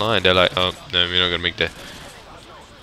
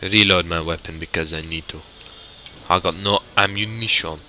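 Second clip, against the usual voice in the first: put-on Russian accent. Gamer out of ammunition in a firefight, mock Russian accent. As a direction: play a Russian soldier, accent laid on. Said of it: "Russian impression the whole Let's Play".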